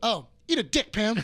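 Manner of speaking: mock husband insult breaking into laughs; laughing insult. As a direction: tell Pam off while cracking up. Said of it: "And he goes".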